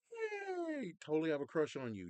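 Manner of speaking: squeaky high "yay", then a quick, loud gush; mock giddy crush. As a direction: cheer high, then blurt out adoration. Acted delight at new crush.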